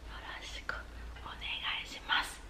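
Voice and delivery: whispered echo. Shown as a demonstration. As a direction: breathe the word softly for them to repeat. Pronunciation drill echo.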